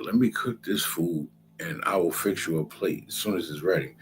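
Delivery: a hushed, calm Jacob promising a plate; whispered Jacob. Retold or imitated. Narrator voicing Jacob calmly telling his hungry brother to wait, whispered. Jacob quoted in retold story.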